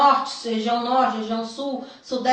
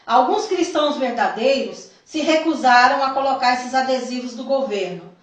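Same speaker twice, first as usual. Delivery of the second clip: deliberate, emphatic reading aloud; solemn testimony reading. A narrator's reading. Telling the church of a vision from Jesus, solemn reading. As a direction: read it out as a weighty revelation. Reads out written vision account.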